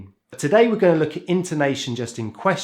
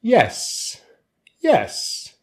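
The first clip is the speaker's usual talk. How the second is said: high "Yes" as if asking why; questioning "Yes", pitched high, none of your business; rising intonation; 8 semitones higher than usual. Shown as a demonstration. Teacher models yes, why are you asking, rising intonation. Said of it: "we use the rising intonation pattern".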